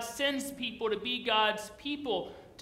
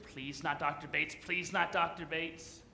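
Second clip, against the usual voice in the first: mock student pleading; 6 semitones lower, 4 dB quieter than usual. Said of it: "You're like".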